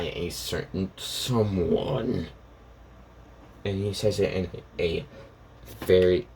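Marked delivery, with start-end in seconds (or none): 0.0-2.3 cold anger, drawn out slowly; slow, understated menace on each word; very angry. Acted. Student revealing who ordered the killing, coldly angry. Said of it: "in a very angry voice".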